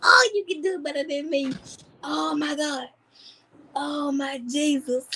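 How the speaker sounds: high voice, helpless with laughter; laughing. Real, not acted. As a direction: gasp it out while cracking up. Cracking up at the impression.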